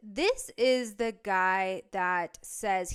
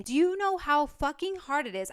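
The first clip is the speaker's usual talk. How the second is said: higher-pitched exasperated demand; real indignant outburst; heated insistence; 5 semitones higher than usual. Real, not acted. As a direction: press the point, fed up. Heated defence of leaving dancing.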